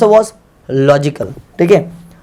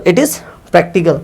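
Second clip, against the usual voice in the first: slow dictation; much slower than usual. Shown as a demonstration. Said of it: "जैसे मैंने बोला यह practical है".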